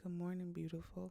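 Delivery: drowsy, sleepy, just-woke-up voice. Acting out a just-woke-up greeting: sleepy morning voice. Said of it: "the sleepy kind".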